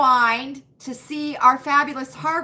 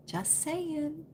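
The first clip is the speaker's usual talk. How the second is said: whispered aside; 3 semitones higher, 12 dB quieter than usual. Real, not acted. Whispered aside after the joke.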